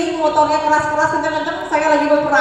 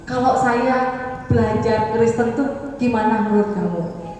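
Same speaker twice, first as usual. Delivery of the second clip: softer, slower, coaxing her husband; wife gently sounding out her husband about Christianity, soft and slow; gentle coaxing; 4 semitones lower, 4 dB quieter, slower than usual. Retold or imitated. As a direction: ease into the question gently. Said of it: "saya ambil hatinya dia dulu".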